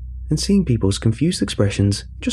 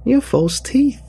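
much higher, ringing announcement; booming reveal; 14 semitones higher, much slower than usual. A narrator's reading. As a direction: boom it out like a magician's reveal. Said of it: "boomed loud enough for the whole room".

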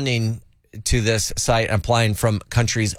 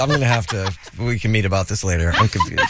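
laughing; 3 semitones lower than usual. Real, not acted. Laughing through confusion.

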